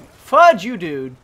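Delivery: furious repeat; angry shout. Real, not acted. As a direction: yell it the second time.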